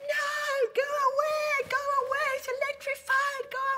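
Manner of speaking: shrill, high, loud screaming. Retelling how a guy warned about electrified wires: imitating a guy screaming.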